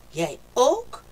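can't believe it, you too?; surprised. A narrator's reading. Kikker amazed that Haas gets scared too, loud rise. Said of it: "riep Kikker verbaasd".

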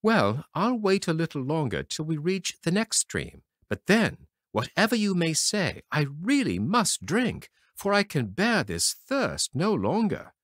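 lightly voiced boy, insistent; a hint of a boy at his limit; thirsty brother. A narrator's reading. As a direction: brother insisting he must drink.

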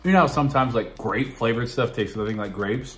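talking while chewing candy; words slightly muffled by chewing; mouth full, chewing. Real, not acted. Seen 2: Puts small yellow candy in mouth at 1.2, then chews while talking.

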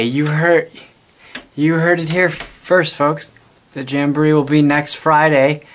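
mock news anchor sign-off; announcer. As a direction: broadcast it to the folks at home. Announcing to audience like reporter.

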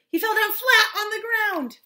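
high, loud narration; excited climax. A narrator's reading. Storyteller as the giant falls, excited cry. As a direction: announce the fall, loud.

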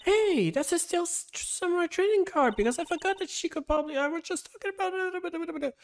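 high, eager collector, loud and pleading; excited high voice. Acted. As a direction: gush over the card, almost begging. Card collector begs for card.

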